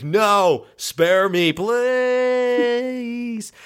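a touch of fake terror; mock pleading. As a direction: beg for your life, hammed-up. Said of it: "He's like".

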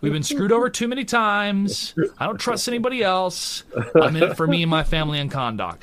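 Black Adam voice. Retold or imitated. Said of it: "that's the type of Black Adam we need to see".

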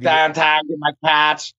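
exaggerated Pittsburgh vowels on a short phrase; lazy Pittsburgh accent. Shown as a demonstration. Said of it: "real lazy way of saying things".

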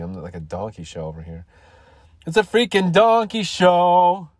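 talking through hiccups; words broken by hiccups. Real, not acted. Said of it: "I'm hiccuping".

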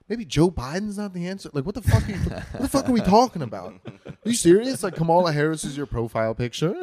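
high, loud, laughing disbelief; can't believe this is real; high laughing outrage; incredulous rant. Retold or imitated.

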